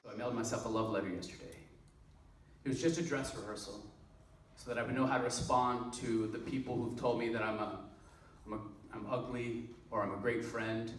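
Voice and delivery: understated spoken-word delivery; poetry recitation. Acted. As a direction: recite it as a quiet, self-deprecating stage poem. Performs a second poem on stage.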